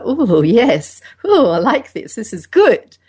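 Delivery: a pleased, eager inner voice; mock delighted ooh; excited ooh. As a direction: purr it out like enjoying yourself. Acting out aroused inner voice.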